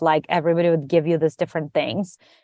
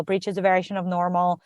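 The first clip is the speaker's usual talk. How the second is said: repeated mantra, fading quieter; softly repeated self-reassurance; softer mantra; 7 dB quieter than usual. Retold or imitated. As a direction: murmur it to yourself like a mantra, dropping away. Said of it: "almost like a mantra".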